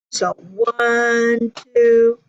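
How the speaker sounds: counted beat by beat; counting demo. Shown as a demonstration. Music teacher counting beats for students. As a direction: count it out steadily. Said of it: "not two sounds, just one sound".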